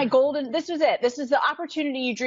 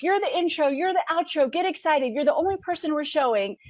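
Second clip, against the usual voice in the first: higher, hurried, thrilled crew; excited crew; 6 semitones higher than usual. Retold or imitated. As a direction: rush the good news at her. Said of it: "they're like".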